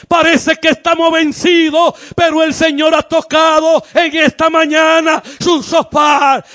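fervent sermon climax, calling out to the church; full-force preaching. Acted. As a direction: rouse the congregation to break down the walls. Preacher's climax over music.

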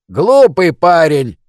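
a mocking high screech; shrieking. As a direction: screech the insult out. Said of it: "верещал я".

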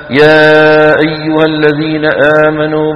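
يا أيها sung slowly with jaws almost locked; faulty recitation with a clenched jaw; jaw held shut. Shown as a demonstration. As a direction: chant يا أيها الذين as if the jaw won't open. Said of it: "بتلاقي الفكين كأنه".

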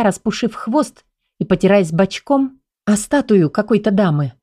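usual speaking voice

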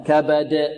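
clear, strong bounce on the د of كبد; قلقلة واضحة قوية. Shown as a demonstration. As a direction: pop the final د of كبد, no vowel leaning. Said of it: "هكذا قلقلة واضحة قوية". (قلقلة قوية على دال كبد)

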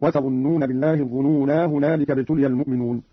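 "الظنونا" with long aa running into "هنالك"; alif kept when joined. Shown as a demonstration. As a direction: join on without losing the aa of "الظنونا". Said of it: "بإثبات الألف وصلا".

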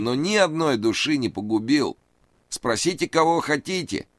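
high, anxious pleading man; nervous high voice. A narrator's reading. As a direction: raise the pitch, plead nervously. Reid voiced.

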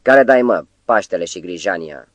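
gruff roar of a man just woken. Acted. Woken spelb roars at whoever kicked him: angry bellow. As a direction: bellow it, half asleep and angry. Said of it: "răgni".

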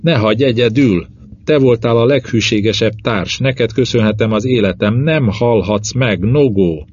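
despairing loud plea; desperate shouting. Acted. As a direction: shout through panic, begging him not to die. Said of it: "kiabálok".

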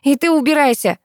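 high, loud, tearful order; choked shout. A narrator's reading. Daughter driving her mother away, choked tearful shout. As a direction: force it out through a lump in the throat. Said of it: "сквозь комок в горле".

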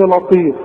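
"لطيف" with a thick, dark L; wrong heavy Lam. Shown as a demonstration. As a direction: weigh down the L of "لطيف". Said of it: "اقول لك غلط". ("لطيف" بلام مفخمة غلط)

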